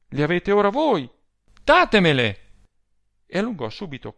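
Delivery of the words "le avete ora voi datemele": high, loud, greedy demand; crying out. A narrator's reading. Adele demands the letters from Rossani, crying out. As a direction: burst out and demand them. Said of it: "gridò Adele".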